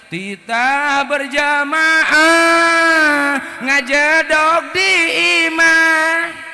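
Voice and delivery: high, loud, slow mock command; mock father's order. A boy mimicking his father's order to stay home and pray, mock scolding. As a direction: play the bossy father barking orders.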